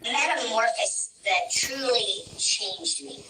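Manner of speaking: robotic voice-changer filter. Real, not acted. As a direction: sound run through a voice app. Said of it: "my voice changer".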